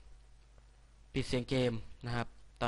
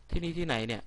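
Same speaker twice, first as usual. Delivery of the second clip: bewildered; 6 semitones higher, 4 dB louder than usual. Real, not acted. Waking in unknown place.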